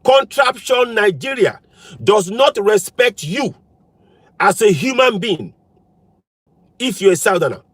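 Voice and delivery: slow, deliberate, with pauses between phrases; measured and emphatic, each phrase set apart; slowly. Shown as a demonstration. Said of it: "Let me say that again slowly".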